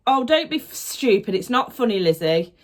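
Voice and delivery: retold stern telling-off; mum scolding. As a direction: imitate an exasperated mum. Mum scolds her in story.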